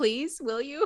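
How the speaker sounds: acted tearful crying. Voicing a crying character gripping a player's arm: crying, pleading in character. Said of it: "She's just crying now".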